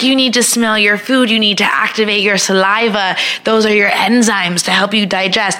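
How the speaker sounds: a hint of a Polish masseuse; Polish accent. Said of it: "This is my Polish accent".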